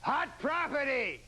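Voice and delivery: high, slow showman call; Ed McMahon announcing. Retold or imitated. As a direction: boom it out like a TV host. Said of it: "He always has this, like".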